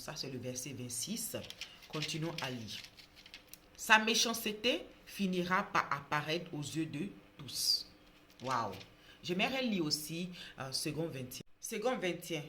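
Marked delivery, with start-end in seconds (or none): 3.8-7.9 Bible reading. Acted. Preacher reading a proverb to viewers, loud solemn reading. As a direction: read scripture out with weight, pausing between phrases. Reads Bible verse aloud.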